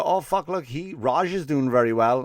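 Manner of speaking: a hint of a proud Indian relative; Indian accent. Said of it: "an Indian guy".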